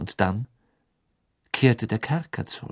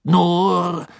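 embarrassed; 7 semitones higher, 7 dB louder than usual. Acted. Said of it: "sagte Bagman verlegen lächelnd".

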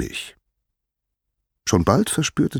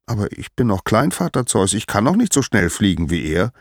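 pleading little Hermes; 4 semitones higher than usual. Acted. Small Hermes objects to father.

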